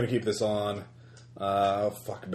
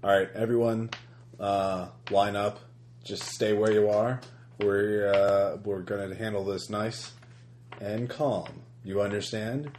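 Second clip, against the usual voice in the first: lightly voiced cold, calm official; even and unhurried, in control; a hint of an icy professional giving orders. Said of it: "cold, professional, calm".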